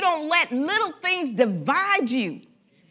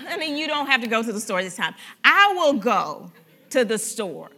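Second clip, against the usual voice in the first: sweet offer; 5 semitones lower than usual. Shown as a demonstration. Spouse offering to go to the store, lower and gently. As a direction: offer kindly to go yourself.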